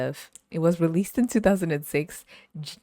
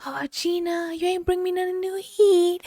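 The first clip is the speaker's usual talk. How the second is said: mock old man; 3 dB louder than usual. Imitating old man calling Gina.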